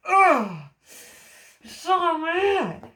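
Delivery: showing mad. Shown as a demonstration. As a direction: blow up at them, sound truly fed up. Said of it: "So let's do mad".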